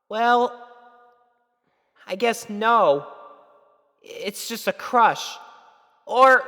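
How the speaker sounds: put-on high, nervous young girl, panicking at the end; flustered filly. Young girl talking herself through her crush, rising panic. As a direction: talk yourself in circles, then panic.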